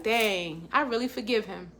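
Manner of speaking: soft, hushed wonder at finally letting go; quiet realization. Retold or imitated. To listeners, picturing the moment forgiveness lands, hushed. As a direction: breathe it out softly, amazed. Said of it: "you be like".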